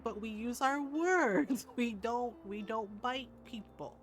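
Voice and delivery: put-on slow, softening lesson to a child; patient correction. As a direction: stretch it out like a patient grandma. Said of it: "And I was like".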